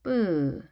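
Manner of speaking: 뿌 with a tense, unaspirated p; tense consonant. Shown as a demonstration. Teacher models the hard sound after S for learners, tense 뿌. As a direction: say 뿌 with no puff of air. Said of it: "센 소리가 오게 되면".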